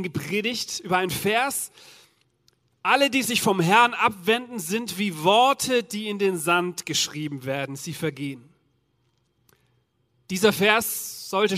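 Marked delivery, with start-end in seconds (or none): 2.8-8.5 solemn verse reading. Acted. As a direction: let the verse sink into the sand. Quoting a Bible verse.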